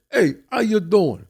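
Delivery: slow, drawn-out mock "Hey, how you doing?"; lightly imitating a stereotyped Italian American greeting; mock New York greeting. Imitating the guys who greet her, slow mock accent. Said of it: "walked over to you and said".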